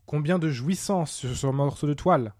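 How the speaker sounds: lightly acted outburst of admiration; mild exclamation. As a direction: exclaim with a touch of rapture. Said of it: "s'écria Porbus".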